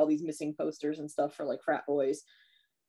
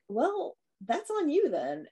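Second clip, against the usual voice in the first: much higher, sassy shrug; mock dismissive girl; 9 semitones higher, slower than usual. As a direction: brush him off in a high voice. Girl dismissing him in story.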